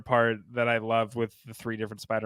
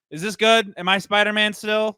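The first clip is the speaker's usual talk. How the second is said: timid questioning quote; 7 semitones higher, 5 dB louder than usual. Retold or imitated. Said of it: "has to go".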